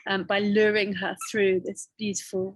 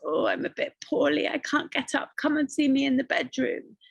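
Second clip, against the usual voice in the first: wolf as grandma; 5 semitones higher than usual. Acted. Wolf fakes sick grandma.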